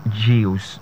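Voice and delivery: "juice" with a y glide, jyoos; mispronounced juice. Shown as a demonstration. Coach showing another wrong form, mispronunciation. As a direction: say "juice" as jee-oos. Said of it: "No, it's juice".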